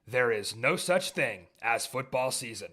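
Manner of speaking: punchy sports-show opener with hard-hit key words; podcast show intro. Acted. Host opens the football show for listeners, sports-show intro.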